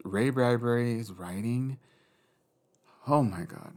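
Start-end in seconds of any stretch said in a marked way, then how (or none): 3.1-3.7 breathless whispered awe. Real, not acted. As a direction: breathe it out in a hush. Swooning over Bradbury's writing.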